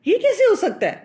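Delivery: incredulous mother. Retold or imitated. Mother who hits her child, stunned at the suggestion. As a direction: gasp it out as if the idea is absurd. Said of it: "تو وہ ایسے دیکھتی ہیں کہ".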